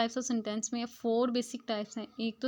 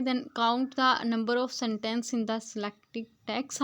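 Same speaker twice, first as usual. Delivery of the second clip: slow, word-by-word reading of the English text; slow textbook reading; much slower than usual. Shown as a demonstration. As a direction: read each word out carefully to the class. Reads English passage aloud slowly. (धीमी गति से पाठ पढ़ना)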